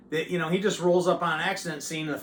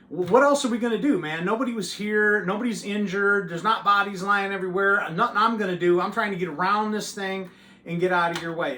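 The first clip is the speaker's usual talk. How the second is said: raised voice, loud and higher, arguing; yelling back; 5 semitones higher, 5 dB louder than usual. Retold or imitated. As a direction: argue back heatedly at the trooper. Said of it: "So I yelled back".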